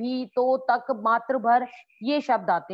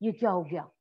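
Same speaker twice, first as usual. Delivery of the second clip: panicked; 5 semitones lower, 3 dB quieter than usual. Shown as a demonstration. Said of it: "घबरा के कहते हैं".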